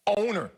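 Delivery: Owner set apart as its own phrase; stress on Owner. Real, not acted. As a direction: punch the word Owner on its own. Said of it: "let me emphasize this word".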